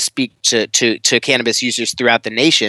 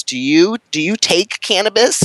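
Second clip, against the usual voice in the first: put-on lightly raised old grandma voice, a bit higher; a hint of a surprised grandmother asking; 7 semitones higher than usual. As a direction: play the curious grandma, light touch. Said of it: "she goes".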